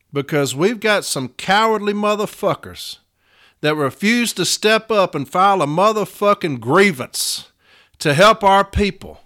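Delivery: heated union rant at lazy stewards; angry rant. Real, not acted. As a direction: rail against the cowards who won't step up. Ranting against cowardly stewards.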